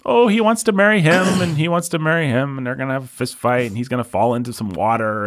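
high, gushing summary that winds down; lightly mocking, excited retelling; mock plot summary. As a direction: rattle off a film plot like a gossip. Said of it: "It's gonna have its little".

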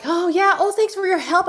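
bright-pitched retold thanks; grateful. Customer thanking the bank representative on the phone, grateful.

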